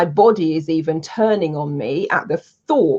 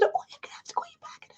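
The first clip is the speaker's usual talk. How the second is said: airless whispered croak, much higher and softer; voice gone whisper; 13 dB quieter, faster than usual. Retold or imitated. Telling the caller she'll ring back, whispering voicelessly. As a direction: barely get the words out, voice gone. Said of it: "just genuinely my voice has gone".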